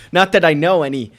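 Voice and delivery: bursts out laughing mid-line. Real, not acted. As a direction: laugh it off guiltily. Laughs at own shady hint.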